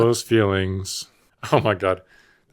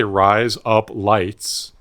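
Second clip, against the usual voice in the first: "Rise up lights" drawn out slowly in a broad Australian accent; slow exaggerated Aussie vowels on "Rise up lights"; much slower than usual. Shown as a demonstration. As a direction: stretch "Rise up lights" out like an Aussie saying razor blades. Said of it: "with an Australian accent".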